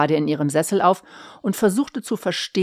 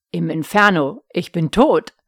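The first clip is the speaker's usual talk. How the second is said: grinning, teasing, a bit louder; smirking; 6 dB louder than usual. Acted. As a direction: say it with a smug grin, as if it's a joke. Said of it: "feixte ihr Mann". (feixend, mit breitem Grinsen)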